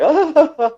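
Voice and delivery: high, loud mock giggle; hammed-up tickled laugh; ticklish squeal. Acts out a tickled monster.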